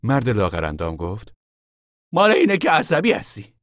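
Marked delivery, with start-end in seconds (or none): 2.1-3.6 higher and louder thin man's voice; a lean man's quick verdict. A narrator's reading. The thin man explaining the nerves, higher voice.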